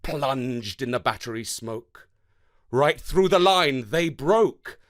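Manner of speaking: rhythmic, dramatic poem reading; galloping poem recital. Acted. Teacher reading a war poem to the class, rhythmic recital. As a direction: ride the galloping beat of the verse. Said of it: "Listen out for the galloping rhythm".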